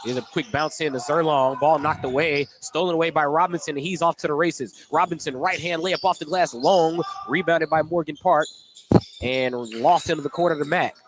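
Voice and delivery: brisk courtside call of the action; steady announcer's game call; live play-by-play. Acted. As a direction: call each pass as it happens.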